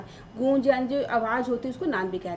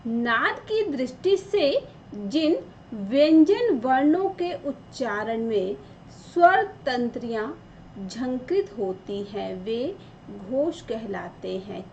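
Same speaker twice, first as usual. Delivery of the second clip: slow, careful reading of the textbook definition; slower than usual. Shown as a demonstration. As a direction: spell out the definition for the class. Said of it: "अब देखिए क्या लिखा है".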